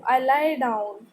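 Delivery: slow, clear read-aloud for a class. Acted. Teacher reading the paragraph to students, slow and clear. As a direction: read each word slowly to pupils. Reads text slowly.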